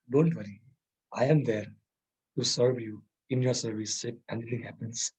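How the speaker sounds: soft, low bedside reassurance; speaking nicely, reassuring. Acted. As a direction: gently comfort someone who is sick. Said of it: "someone by my side speaking nicely".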